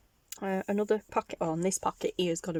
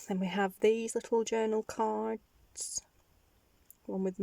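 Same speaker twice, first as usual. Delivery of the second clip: whisper; 3 semitones higher than usual. Real, not acted. Showing journal items.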